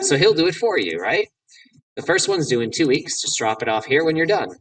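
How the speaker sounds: a hint of breezy jock; lightly voiced college jock. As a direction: play the casual student handing off his homework.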